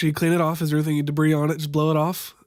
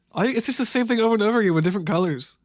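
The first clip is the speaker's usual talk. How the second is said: exasperated; 5 semitones higher, faster than usual. Real, not acted. Exasperated at repeating steps.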